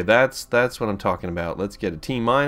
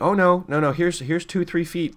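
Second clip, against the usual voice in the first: high-pitched mock objection; mock protest; 8 semitones higher than usual. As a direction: play up an indignant correction, high. Mimicking the weather's surprise snowfall.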